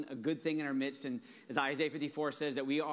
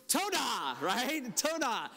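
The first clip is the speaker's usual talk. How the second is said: grateful toda; 6 semitones higher, much slower than usual. Acted. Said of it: "our response is".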